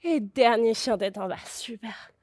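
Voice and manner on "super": soft praise. Real, not acted. Soft praise at the end of the flow.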